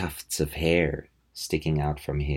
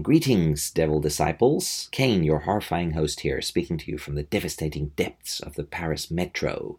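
lightly voiced comic-book horror host; a hint of theatrical ghoulish welcome; horror host Kane. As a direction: read it lightly in a horror host's role. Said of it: "So he starts off by saying".

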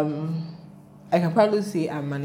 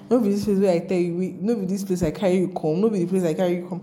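mock Pidgin rant from the bike driver; imitating angry driver; 3 semitones higher, faster than usual. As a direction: rattle it off like the shouting driver. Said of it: "the man was yelling".

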